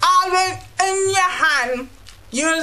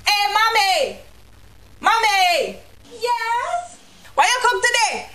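put-on child calling mommy; 7 semitones higher than usual. Kid calling mother, dialogue.

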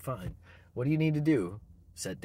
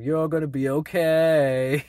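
mild film driver; 5 semitones higher, 11 dB louder than usual. Retold or imitated. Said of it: "the driver is telling him".

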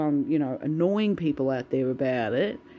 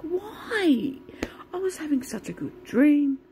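high, breathless whisper of dismay; whispered protest; 11 semitones higher, slower than usual. Retold or imitated. Complaining to the dream intruder, in a high whisper. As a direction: whisper it like you can't believe it's ruined. Retelling her reaction in the dream.

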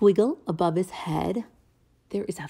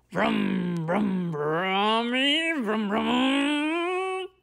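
pigeon vroom; 2 semitones higher, much slower than usual. Pretend. Pigeon daydreaming of driving, slow vroom. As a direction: pretend to drive a bus.

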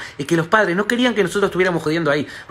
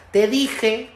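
smug told-you-so; 3 semitones higher than usual. Retold or imitated. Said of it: "¿qué le grita?".

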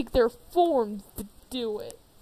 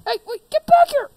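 calling after it; 12 semitones higher, 9 dB louder than usual. Acted. Chasing the fleeing pumpkin.

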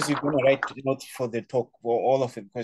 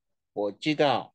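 confident. Shown as a demonstration. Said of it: "But when you know, of course".

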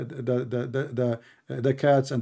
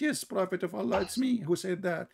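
ant's reply; 2 semitones higher, 6 dB quieter than usual. Retold or imitated. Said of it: "She said".

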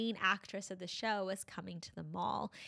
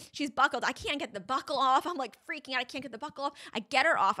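frantic retelling; 4 semitones higher, 4 dB louder than usual. Retold or imitated. Reliving being stuck on the carousel.

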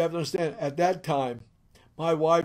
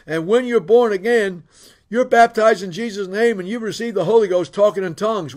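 insistent, louder retold tirade; mad wife; 3 semitones higher, 6 dB louder than usual. Wife telling church men her conversion story, mad and insistent. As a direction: press the testimony hard, as an angry wife. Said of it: "She's mad".

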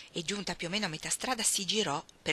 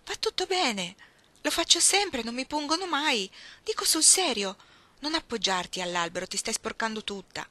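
reassuring; 5 semitones higher, 4 dB louder than usual. Acted. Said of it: "Iggy cercò di rallegrarla".

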